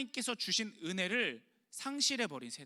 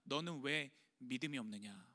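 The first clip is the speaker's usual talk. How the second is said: softer, lower, sorrowful reproach; gentle rebuke; 6 semitones lower, 7 dB quieter than usual. Acted. Jesus asking his disciples, a soft reproach. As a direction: ask it softly, grieving. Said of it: "주님께서 꾸짖으신 그 한 가지는".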